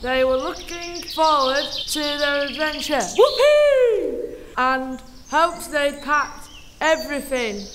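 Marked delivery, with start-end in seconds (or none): 3.2-4.4 high gleeful whoopee; excited cheer. Acted. Narrator voicing a thrilled child, cheering.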